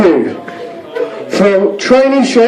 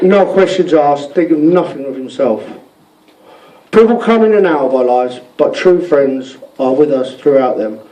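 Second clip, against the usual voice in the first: sincere; 3 semitones lower than usual. Real, not acted. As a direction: speak it from the heart. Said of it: "On a serious note then".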